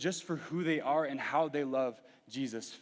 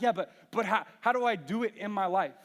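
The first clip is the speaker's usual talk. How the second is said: frustrated asking; 5 semitones higher, 4 dB louder than usual. Retold or imitated. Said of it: "and I'm like".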